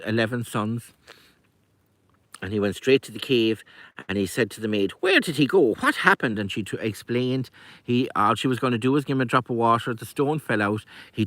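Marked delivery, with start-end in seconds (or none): 5.0-6.4 urgent questioning. A narrator's reading. Druid urgently questions the maid.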